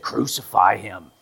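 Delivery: slow, loud call to crucify; slow loud crowd chant; crowd demand. Retold or imitated. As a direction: shout it out as the crowd.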